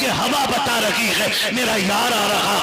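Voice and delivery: slow yearning plea, voice reaching up; anguished plea. Acted. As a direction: stretch the words out, longing. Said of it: "बच्चे ने तड़प के कहा था". (धीमी, तड़पती हुई पुकार)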